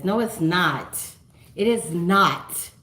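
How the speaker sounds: firmly contradict, landing hard on "not"; emphatic denial. Real, not acted. Disputing the viewer's accent claim.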